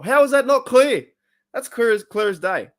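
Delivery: high, loud outburst of disbelief; how could anyone miss it, loudly; exasperated. Real, not acted. Venting at a commenter, high and loud in exasperation. Ranting about the title.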